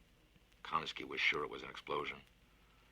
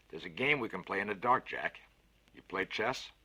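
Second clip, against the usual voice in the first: a lightly voiced big bluff man, louder; hearty Fats; 4 semitones higher, 5 dB louder than usual. Fats offers to plug the leak himself, bluff and louder. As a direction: boast it cheerfully, a touch louder. Konski in the dark.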